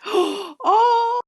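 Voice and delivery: high, loud delighted oh; imitated surprised oh. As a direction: squeal like a touched friend. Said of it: "for being like".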